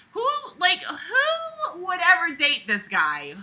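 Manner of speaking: fake-weep the line in mock despair; mock sob. Host mock-sobbing over the story's pathetic narrator. Mocking the writer, crying voice.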